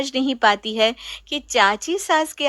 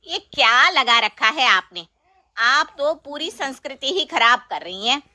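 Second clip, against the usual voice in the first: stern aunt; 3 dB louder than usual. Acted. Chachi defends tradition.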